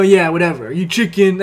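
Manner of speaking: casual, unbothered retold question; nonchalant. Girl casually daring him to keep playing, nonchalant. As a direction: toss it off as if indifferent. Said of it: "super nonchalant about it".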